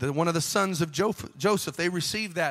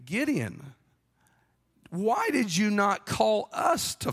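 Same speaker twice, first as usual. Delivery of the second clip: whiny offended tribe. Acted. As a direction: play the offended Ephraimites whining at Gideon. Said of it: "They say".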